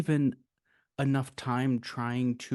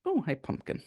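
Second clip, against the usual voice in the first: softer, higher pet-greeting voice; fond greeting; 5 semitones higher, 4 dB quieter than usual. Real, not acted. Host greets Pumpkin mid-discussion, soft and fond. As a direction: break off for a soft, higher hello.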